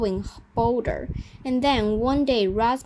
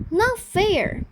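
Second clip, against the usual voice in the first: put-on higher, louder childish whine; whining; 9 semitones higher, 4 dB louder than usual. A narrator's reading. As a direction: complain like a sulking kid. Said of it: "Jolly whined".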